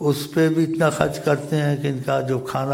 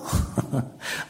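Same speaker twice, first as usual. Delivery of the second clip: short chuckle; 9 dB quieter than usual. Real, not acted. Chuckles during retold exchange.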